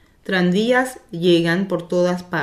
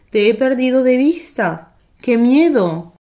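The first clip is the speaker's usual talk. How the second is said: loud, higher-pitched fretful outburst; alarmed exclamation; 6 semitones higher, 7 dB louder than usual. A narrator's reading. Grandmother telling Anne of losing her, alarmed exclamation. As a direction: exclaim it like a scare just over.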